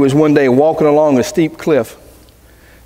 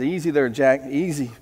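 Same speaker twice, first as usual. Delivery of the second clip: calming; 3 semitones lower, 5 dB quieter than usual. Retold or imitated. God calms the panicking man.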